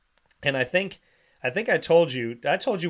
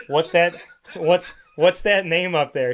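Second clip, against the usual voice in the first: louder, pressing questions; exasperated; 3 semitones higher, 5 dB louder than usual. Retold or imitated. Asking the girl about the sign, exasperated and louder. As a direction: demand an answer, exasperated. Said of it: "I said".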